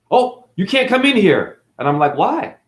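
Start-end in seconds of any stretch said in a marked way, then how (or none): 0.1-1.6 higher, louder prissy objection; mocking gatekeeper. 2.2-2.6 higher, feigned innocent question; mock innocent why. His own mock-innocent reply.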